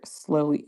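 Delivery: "Slowly" set apart as its own emphatic word; emphasis on slowly. Real, not acted. New mother qualifying her recovery, emphatic "Slowly". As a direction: repeat "Slowly" alone for emphasis. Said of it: "emphasis on the word slowly".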